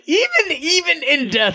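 high-pitched, laughing disbelief; amused, laughing as you say it. Real, not acted. Laughing over the Deweys' fate.

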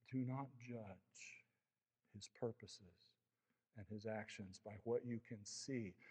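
gentle exhortation. Acted. Pastoral quiet exhortation.

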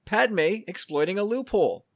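loud, high, gleeful announcement; excited exclamation. Real, not acted. Host crowing to Corey about Padme's loophole, excited.

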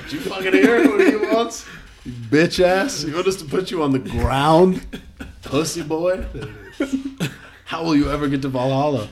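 mocking Viking. Acting Vikings mocking a man.

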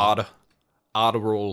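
R said as one flick, sounding like "odd"; single tapped R. Shown as a demonstration. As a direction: tap the tongue once for the R. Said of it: "it's like a single".

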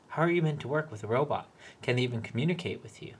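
fast, worked-up questions; agitated rant. Acted. Peter ranting at his manager, fast and indignant. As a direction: rush it out, indignant.

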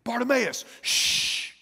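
acted shushing; telling someone to pipe down; hushing friend. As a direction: hail him, then shush him with a long hiss. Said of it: "be quiet".

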